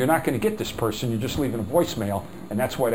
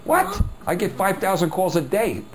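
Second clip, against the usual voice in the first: annoyed customer; 5 semitones higher than usual. Retold or imitated. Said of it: "Melissa's sitting there going".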